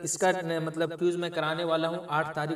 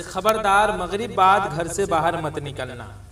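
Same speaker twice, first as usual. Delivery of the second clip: slow, louder warning with "खबरदार" leaned on; stern father's warning; 7 dB louder, slower than usual. Shown as a demonstration. Father forbidding going out after sunset, stern and slow. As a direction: lay down the rule like a strict father. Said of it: "आपके बाबूजी कह रहे हैं आपको".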